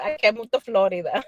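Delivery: Spanish-tinged accent on Florida; accent slipping out. Real, not acted. Speaker refusing a move to Florida, accent slipping out. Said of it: "I don't know why my accent just came out".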